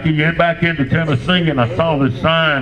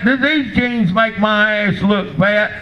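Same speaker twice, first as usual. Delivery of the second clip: ex-wife asking; 6 semitones higher, slower than usual. Retold or imitated. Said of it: "she said".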